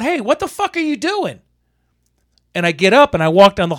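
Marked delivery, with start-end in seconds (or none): 0.0-1.4 retold scream. Electrician yells down the hall, retold high-pitched scream. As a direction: re-enact a scream without the volume. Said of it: "So I screamed out".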